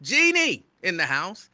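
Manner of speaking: excited radio shout-out. Real, not acted. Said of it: "I feel like I'm screaming".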